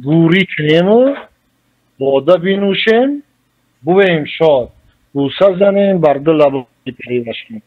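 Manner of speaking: slow, lifted verse reading with each half-line drawn out; poetic recitation. Shown as a demonstration. Scholar reciting Rudaki's verse to the host, slow and lifted. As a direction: recite it like classical poetry, savouring the words.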